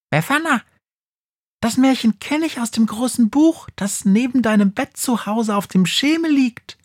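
very high, eager little mouse. Acted. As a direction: chatter it out like a giggly mouse. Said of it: "Die Maus beginnt zu kichern".

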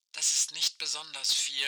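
like a far-off voice over a walkie-talkie; old rotary phone. Acted. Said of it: "Aisches Stimme knarzt durch das Funkgerät".

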